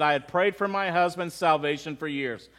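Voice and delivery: low, subdued retelling of a tearful widow; understated grief; mild retold sobbing. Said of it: "she sobbed".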